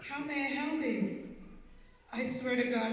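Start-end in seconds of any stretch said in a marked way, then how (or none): 0.0-1.3 polished phone voice. Retold or imitated. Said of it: "he was talking like".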